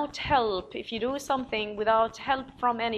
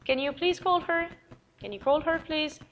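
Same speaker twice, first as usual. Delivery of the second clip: pleading request; 6 semitones higher than usual. Retold or imitated. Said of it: "teacher acting a request".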